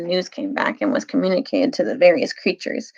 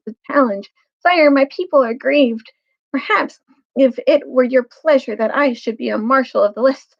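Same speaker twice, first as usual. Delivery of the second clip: mouse knight voice; 5 semitones higher than usual. Acted.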